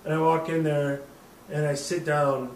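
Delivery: normal talking voice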